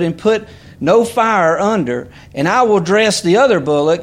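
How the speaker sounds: emphatic preacher reading the Bible aloud; scripture reading. Real, not acted. Reads scripture aloud to congregation.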